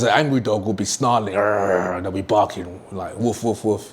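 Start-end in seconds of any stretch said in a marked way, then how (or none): 1.3-1.9 mock dog growl, lightly done; a playful half-hearted snarl; light imitated dog snarl; dog snarl imitation. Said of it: "I'm doing all these animal sounds". 3.2-3.9 mock woof woof, lightly barked; playful imitated dog barks; half-hearted barking impression; dog bark imitation. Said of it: "I'm doing all these animal sounds".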